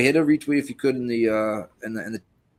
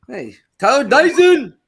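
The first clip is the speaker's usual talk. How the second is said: slow loud call-out; 12 semitones higher, 8 dB louder, slower than usual. Acted. Calling out a donor.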